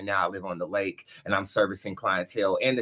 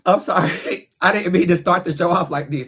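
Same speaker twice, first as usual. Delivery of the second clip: emotional; 6 semitones higher, 7 dB louder than usual. Real, not acted. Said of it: "I got a slight bit emotional".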